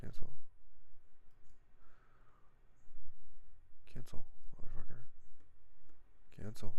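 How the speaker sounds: loud, angry barks of cancel; real exasperated yelling; frustrated shout. Real, not acted. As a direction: yell at the computer to cancel. Yelling at frozen software.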